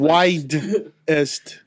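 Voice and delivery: "Widest" with a clear d sound; widest, clearly said. Shown as a demonstration. Correcting himself to friends who heard whitest, "Widest" said clearly. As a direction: say "Widest" carefully, not whitest. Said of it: "Not whitest".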